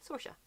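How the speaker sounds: Saoirse as SOR-sha; anglicized Saoirse. Shown as a demonstration. Explaining the other actress's name, anglicized SOR-sha. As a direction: OR vowel in Saoirse. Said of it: "the anglicized version".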